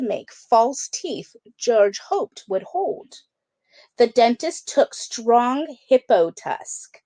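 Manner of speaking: lively storybook read-aloud; children's book narration. A narrator's reading. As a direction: read it like bedtime story time. Reads picture book to kids.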